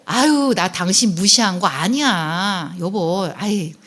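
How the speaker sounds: slow, coaxing wife's reassurance; acted soothing. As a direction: gently play down the offence, drawing words out. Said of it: "다독다독 안아주잖아요". (남편을 달래듯 천천히)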